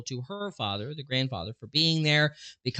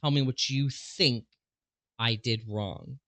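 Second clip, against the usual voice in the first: slow, deliberate quote; slower than usual. Retold or imitated. Quoting the mom's demand slowly and deliberately. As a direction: Tell me what you think I did wrong, drawn out slowly word by word. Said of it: "I really wanna emphasize that word there".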